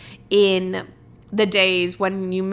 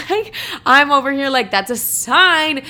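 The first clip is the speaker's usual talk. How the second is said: laughing; 6 semitones higher, 6 dB louder than usual. Real, not acted. Laughing at her own belief.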